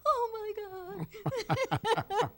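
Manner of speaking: a hammed-up sob, stretched very slow; mock crying. Grandmother mimics Phil crying at the baby news, mock sobbing. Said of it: "he was like".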